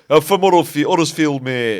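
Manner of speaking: mock Huddersfield local; Huddersfield accent. Mocking Huddersfield locals for friends, Huddersfield accent. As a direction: put on a broad Huddersfield accent. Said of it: "we're doing the English".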